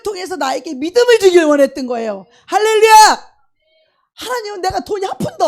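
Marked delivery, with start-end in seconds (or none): 2.5-3.4 big loud high hallelujah; shouted hallelujah. Real, not acted. Preacher rallying the congregation, a big shout. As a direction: throw it out to the congregation.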